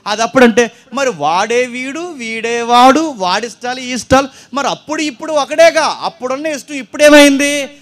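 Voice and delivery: a rising, forceful pulpit appeal; forceful preaching. Acted. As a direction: drive the point home to the crowd. Preacher building to full force.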